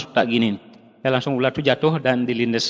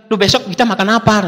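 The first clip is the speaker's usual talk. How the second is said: retold scolding, mildly exasperated; wife's angry scolding; 6 semitones higher, 4 dB louder than usual. Wife confronting husband about tomorrow's food, retold angrily. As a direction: imitate an upset wife, pitched high. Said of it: "sampai marah-marah istri saya".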